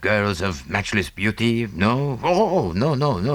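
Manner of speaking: put-on playful French-accented teasing, a laugh in it; amused Poirot. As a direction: tease his friend about auburn hair.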